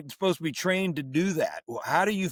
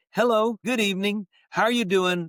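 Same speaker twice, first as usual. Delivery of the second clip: mock greeter voice; 5 semitones higher than usual. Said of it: "I hear the same person say".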